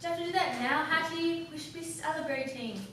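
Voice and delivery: lightly put-on voice coaxing her to celebrate; Arthur, the brother. Arthur's voice acted within narration.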